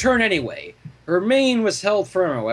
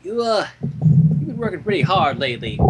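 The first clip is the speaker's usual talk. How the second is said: 1 careful diplomacy. Acted. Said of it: "she began carefully".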